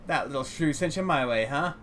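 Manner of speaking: put-on lightly German-accented junk dealer; gruff, well-meaning old man with a hint of German. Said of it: "heavily accented with German tonality".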